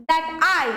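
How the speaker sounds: light "that", stronger falling "I"; "I" carries the beat, "that" stays light; stress on "I". Shown as a demonstration. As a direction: lean on "I" after an unstressed "that". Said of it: "stress বেশি পড়ছে".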